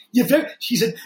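lightly voiced Brooklyn Jewish mom accent. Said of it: "in his old Brooklyn Jewish mom accent".

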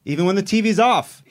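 high, slow hammed-up wail; comic on-stage wail of fake tears; mock sob wail. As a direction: wail it like a melodramatic weeper. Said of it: "I'm crying".

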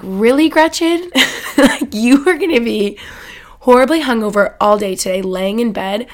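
mock scolding of her own name; scolding herself. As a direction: tell yourself off, exasperated. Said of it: "I was so mad at myself".

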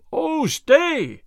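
loud, high call after someone; shout. A narrator's reading. Stuteley to the fleeing sheriff, shouting. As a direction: shout after him, pitched right up. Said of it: "shouted Will Stuteley after the sheriff".

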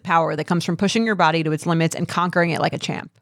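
upbeat sponsor read; podcast host reading a deodorant ad. Acted. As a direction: sell the deodorant to the listeners. Reads a sponsor ad.

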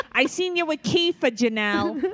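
mock yelling. S1 joins the mother-daughter fight.

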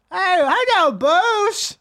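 very high, loud goofy holler; mock over-eager guy yelling a greeting; random guy calling out. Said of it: "some guy called, said Bruce once".

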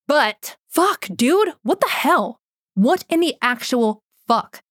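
high, disbelieving rant; exasperated outburst. Real, not acted. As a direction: throw up your hands in outrage. Outraged venting about abuse case.

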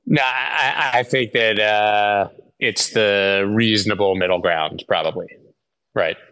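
glitchy, metallic connection audio; robotic voice. Real, not acted. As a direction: sound like a choppy robotic call line. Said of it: "Mario, you sound robotic".

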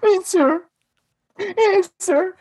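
a barista interrupting a phone call, mocked high and prissy; mocking hipster. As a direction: imitate a smug server cutting you off.

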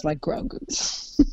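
hushed giggly aside; whispered aside. Real, not acted. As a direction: drop to a whisper for the punchline. Whispered aside about dog ears.

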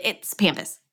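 "pampas" as PAM-pus, flat a as in "cat"; short-a pampas. Shown as a demonstration. Host citing Google, "pampas" with short a. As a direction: say "pampas" with the vowel of "ham". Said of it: "I Googled it".

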